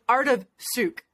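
art of souk, sucre said French-style as souk with no final ra; French pronunciation. Shown as a demonstration. Owner demos how the French say the business name. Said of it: "is how they pronounce it".

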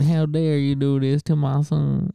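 slow, lightly put-on scolding mother; mock indignant mom. Repeating the mom impression for her son, mock indignant. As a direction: draw it out as a hammy outraged mom. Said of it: "That's your impression of my mom?".

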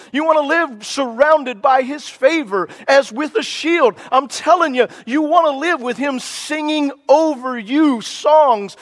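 fervent rising preacher's build, pitch climbing; revival-style fervour building line by line; getting excited. Real, not acted. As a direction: let the passion swell as you preach. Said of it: "I'm getting a little bit excited".

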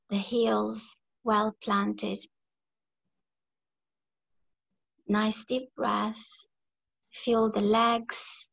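measured meditation guidance with long pauses; guided meditation. Real, not acted. Leader grounding the group through breath and body, guided meditation. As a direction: guide the group gently through each step, pausing between phrases.

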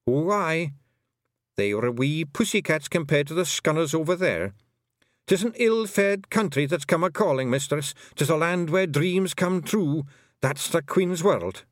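a Feegle chief turning solemn; grave Scottish pixie. Acted. Rob Anybody warns Tiffany of the other side, grave Scots Feegle. Rob describes the Queen's land.

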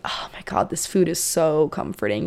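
2 hushed, low whisper of relief; 3 whisper it like the first spoonful comforts you; 4 breathy whispered delight over ramen; 1 whispered, savoring. Pretend. Savoring comfort food, quoted aloud.

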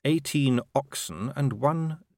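very slow, deliberate listing; urbane patrician, deadpan. Acted. Patrician reading out the traffic division's haul, slow and deadpan. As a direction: itemise it drily, lingering on each item.

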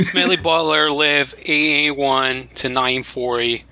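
"eight eighty-one to nine forty" run together, numbers smudged; Philly numbers smudged. Shown as a demonstration. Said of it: "they, like, smudge the numbers together".

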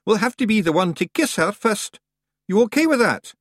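high, loud broad Scottish pixie voice; a cocky wee Scots fighter; tiny Scots warrior. Acted. Rob Anybody answering the boy, high broad Scots.

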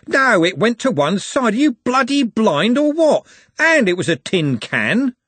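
furious, loud protest at the ref; angry shout. Acted. Andy yelling at the referee over the goal, furious. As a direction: yell it, outraged.

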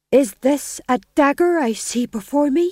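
high, loud stage husband. Acted. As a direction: declaim it like a nervous lord. Winslow in the play.

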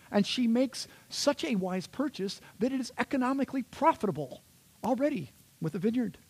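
grand, swooping mock-epic delivery; hyperbolic superwoman reading. Shown as a demonstration. Preacher extols the superwoman's purchase, showy hyperbole. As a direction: marvel at her feats in a showy recital. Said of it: "sound like an ancient Jewish superwoman".

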